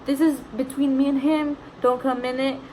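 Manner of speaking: retold firm warning. Mom tells the intruder to stay out, acted firm warning. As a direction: act out telling someone to stay out.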